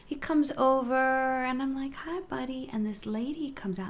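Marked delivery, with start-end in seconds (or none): 2.0-2.7 soft, higher-pitched hello; tender dog greeting. Retold or imitated. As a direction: coo it gently to a friendly dog. Greeting a dog she loves.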